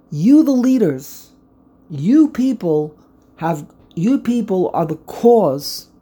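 slow, hammered accusation at the leaders; accusing. Shown as a demonstration. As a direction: point the finger: you people are the cause. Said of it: "it's a statement".

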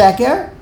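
sheker with weight on the first syllable; correct first-syllable stress. Shown as a demonstration. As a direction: hit SHE in sheker. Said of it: "that is correct".

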